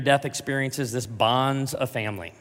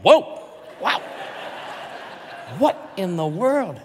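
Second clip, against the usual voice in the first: put-on shocked kid; 6 semitones higher, 4 dB louder, slower than usual. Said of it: "my kid's like".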